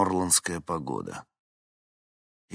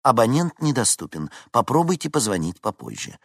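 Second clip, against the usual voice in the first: automated message; 5 semitones higher, 5 dB louder than usual. A narrator's reading. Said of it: "посоветовал металлический голос".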